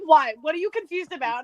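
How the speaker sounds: low "what?", then a falling question; mild retold annoyance. He notices her sitting there confused, mildly annoyed. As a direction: lightly imitate his irritated questioning. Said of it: "he gets really annoyed at me".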